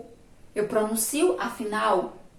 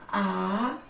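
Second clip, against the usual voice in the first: syllable separation; 4 dB quieter than usual. Shown as a demonstration. Teacher separating a little word for pupils, syllable by syllable. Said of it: "Se eu for separar essa palavrinha".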